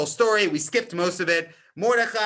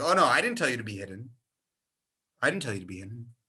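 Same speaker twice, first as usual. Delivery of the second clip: defensive backtracking; 5 semitones lower, faster than usual. Retold or imitated. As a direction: brush it off hastily, dropping to a mutter. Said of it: "trying to cover his tracks".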